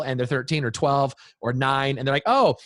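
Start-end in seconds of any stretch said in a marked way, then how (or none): 2.3-2.6 high-pitched imitation of a curious kid; kid asking a question. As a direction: rattle it off as a child puzzled by new words. Child asking parent about bad words.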